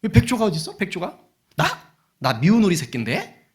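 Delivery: bewildered duckling; puzzled, questioning lilt; acted surprise. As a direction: question it in mild disbelief. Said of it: "놀라는 거죠".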